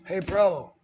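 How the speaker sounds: high, loud hollered bro call; turtles calling out. Retold or imitated. Vlogger voicing turtles hollering at him, high and loud. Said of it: "They were like".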